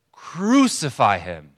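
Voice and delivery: slow, loud mob cry; crowd shout. Retold or imitated. Preacher imitating the crowd the prisoner overhears, shouting. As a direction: draw it out forcefully as a crowd's demand. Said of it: "even louder".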